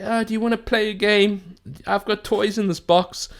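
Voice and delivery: put-on high, eerie little girl singsong; eerie ghost child luring you to play; creepy little girl voice. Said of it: "creepy little girl voice".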